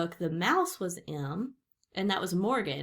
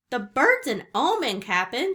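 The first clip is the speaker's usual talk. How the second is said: raised, higher pirate voice; shouting; 5 semitones higher, 7 dB louder than usual. A narrator's reading. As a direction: call out a superstitious warning to the captain. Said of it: "shouted Stinky".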